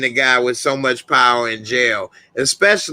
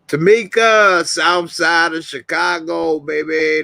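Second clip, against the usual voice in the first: hyped shout-out; 5 semitones higher than usual. Real, not acted.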